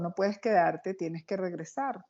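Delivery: calm reassuring Jesus. Retold or imitated. Jesus again calming the panicked woman, slow and gentle. Jesus telling her to return.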